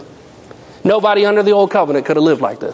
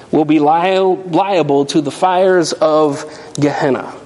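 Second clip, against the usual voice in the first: scripture reading. Acted. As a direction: read the passage solemnly to the congregation. Reads the scripture passage aloud.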